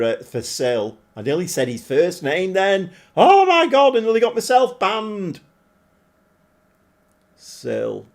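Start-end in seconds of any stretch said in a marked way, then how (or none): 3.2-5.4 high and loud, caught himself out; startled exclamation. Real, not acted. Streamer startled he nearly got himself banned. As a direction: gasp at your own near slip.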